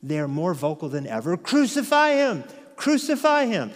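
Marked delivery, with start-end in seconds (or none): 1.4-3.7 mob screaming. Retold or imitated. The mob, more vocal than ever, screaming. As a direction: yell it like an angry mob.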